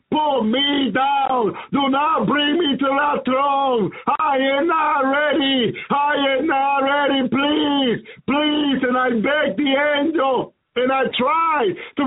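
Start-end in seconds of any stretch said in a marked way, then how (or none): 0.1-8.8 urgent begging cry, a touch raised; desperate pleading. Retold or imitated. Retelling how he begged the angels, a pleading cry. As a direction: plead not to be taken yet, near tears. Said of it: "And I said to those angels".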